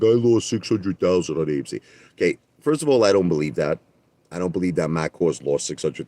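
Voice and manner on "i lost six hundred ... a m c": imitating a whiny complaint; lightly put-on poor-me lament; mock crying the blues. Streamer mocking rival's losses, crying the blues. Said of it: "he's crying the blues".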